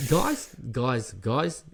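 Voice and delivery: Australian attempt drifting South African; retry a bad Australian accent on each call; botched Australian accent. Storyteller retrying the team's greeting, botched Australian accent. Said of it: "That was South African".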